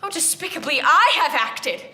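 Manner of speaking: loud cry of self-reproach, swelling mid-phrase; self-blaming outburst. Acted. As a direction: burst out in shame at yourself.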